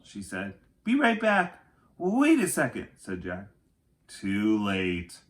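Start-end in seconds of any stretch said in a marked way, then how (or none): 0.8-1.6 high, loud, bright call; tossed off as she darts away; eager call. Acted. Annie dashes into tunnel. 2.0-2.9 higher and louder call to stop her. Acted. Jack calls after Annie.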